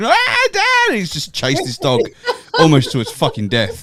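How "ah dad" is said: put-on very high, screaming child's cry. Retelling the moment the rake shattered: imitating childhood screaming. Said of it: "Me and my sister start screaming".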